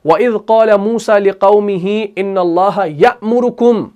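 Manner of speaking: measured Arabic recitation with long vowels; Quran recitation. Shown as a demonstration. Teacher reciting Surah Baqarah as an example, measured recitation. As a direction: recite the verse deliberately, sustaining the long syllables. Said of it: "सूरह बकरा की आयत number sixty seven".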